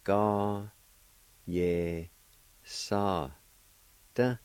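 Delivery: "Ga, ye, sa, da" each syllable set apart. Shown as a demonstration. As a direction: break "Ga, ye, sa, da" into clear syllables. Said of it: "It's pronounced like this".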